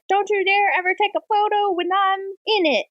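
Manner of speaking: high-pitched mock warning; mock threat. Villain warning the photographer off, mock threat.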